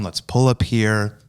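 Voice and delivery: mildly soothing, low-pitched quote; calming. Retold or imitated. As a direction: gently talk someone down after an accident. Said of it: "so I'm calming her down".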